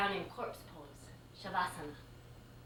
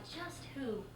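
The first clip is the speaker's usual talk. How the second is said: softer, breathy inner aside; whispered thought; 11 dB quieter, slower than usual. Retold or imitated. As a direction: whisper it to yourself.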